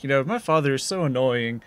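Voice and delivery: quick, lightly voiced Southern belle; teasing impression of a pretentious Southern teen; mock Southern belle. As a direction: imitate a complaining Southern belle at a fast clip. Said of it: "like, Southern Belle, who's like".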